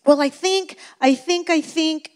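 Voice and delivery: hesitant, halting I think; stalling, unsure of the answer; a light mock of someone unsure; unsure dithering. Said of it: "If you're sitting here going".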